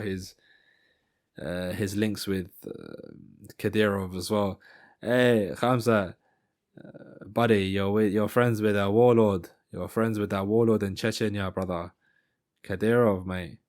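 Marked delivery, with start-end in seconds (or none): 5.0-13.6 attempted South African accent; Dricus. Fighter needles Khamzat about his warlord friend, attempted South African accent. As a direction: have a go at South African trash talk. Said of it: "I'm really trying to get this accent".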